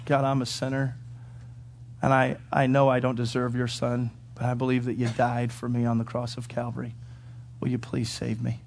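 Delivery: hushed, low confession; humble prayer. Shown as a demonstration. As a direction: pray it quietly and humbly. Models a sinner's prayer.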